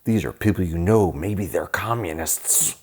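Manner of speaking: lightly acted suspicious fifties alarmist; mock paranoia. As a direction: draw out the last words, mock-ominous.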